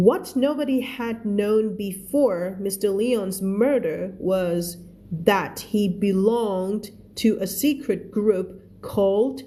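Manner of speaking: reads each English word slowly and clearly for learners; slow, careful read-aloud for the class; slow story reading. Shown as a demonstration. Teacher reads the book slowly to her students, careful read-aloud.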